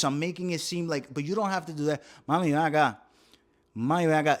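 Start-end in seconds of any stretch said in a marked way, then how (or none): 2.3-4.4 "Mami, ven acá" called a touch louder; calling mami over. Shown as a demonstration. Comedian showing the universal mami call to the crowd. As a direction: beckon "Mami, ven acá" across the room. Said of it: "that one's universal".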